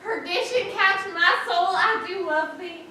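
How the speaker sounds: impassioned declaration. Acted. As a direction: declaim your love like a stage tragedian. Declares love in Shakespeare quotation.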